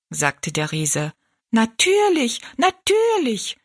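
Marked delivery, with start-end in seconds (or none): 1.5-3.6 very high little dwarf voices; echoing dwarfs. A narrator's reading. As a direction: squeak it like tiny people echoing. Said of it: "wiederholten die drei Zwergenmenschen". (piepsige, sehr hohe Zwergenstimmen)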